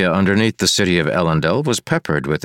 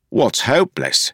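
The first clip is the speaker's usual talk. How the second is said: higher, rough-edged complaining sidekick; Wayne, grumbling constable; 6 semitones higher than usual. A narrator's reading. Wayne grumbling to Marcy about the sewer. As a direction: whine it like a put-upon partner.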